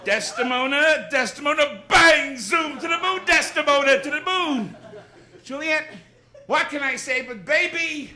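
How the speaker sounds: blustering comic mangling the tragedies; Jackie Gleason doing Shakespeare. Acted. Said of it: "Here is Jackie Gleason doing Shakespeare".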